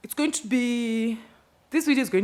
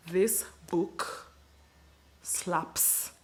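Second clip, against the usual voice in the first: whisper; 4 dB quieter, much slower than usual. Acted. Hushed verdict on the book.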